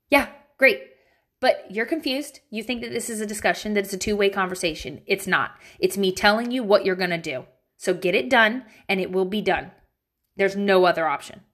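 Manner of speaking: firm, no-nonsense irritated mom; stern mom voice. Shown as a demonstration. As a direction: lay down the law to a kid. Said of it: "Let me give you my mom voice".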